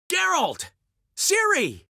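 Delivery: high excited call of names. Acted. Dandelion greeting Geralt and Ciri with an excited high call. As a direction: hail them from across the room. Calling out on arrival.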